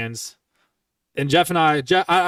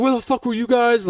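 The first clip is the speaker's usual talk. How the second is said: retold accusation; 8 semitones higher, 3 dB louder than usual. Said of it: "so I was like".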